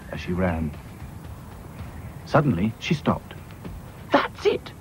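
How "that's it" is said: 1 excited exclamation. Acted. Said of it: "she said out loud".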